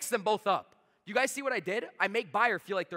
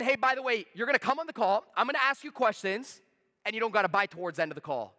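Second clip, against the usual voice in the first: pitch demo; 4 semitones higher, 4 dB louder than usual. Shown as a demonstration. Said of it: "I just said".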